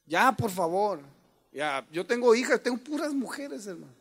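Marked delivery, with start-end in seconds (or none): 0.1-1.0 loud shouted order; shouting like a man. Retold or imitated. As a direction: yell it firmly. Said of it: "tengo que gritar a veces como hombre".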